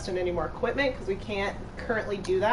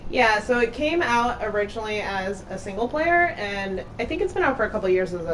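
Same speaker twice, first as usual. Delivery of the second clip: super echoey; 2 semitones lower than usual. Real, not acted. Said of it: "I sound super echoey still".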